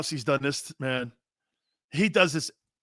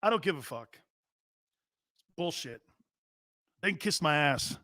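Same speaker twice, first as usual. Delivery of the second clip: softly dismissive athlete impression; Baker Mayfield; 6 dB quieter than usual. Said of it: "let me do my impression of Baker Mayfield".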